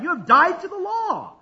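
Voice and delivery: high and strong, every word firm; with conviction. Shown as a demonstration. Preacher leading the crowd, said with conviction. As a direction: declare it like you mean it. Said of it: "now say it with conviction".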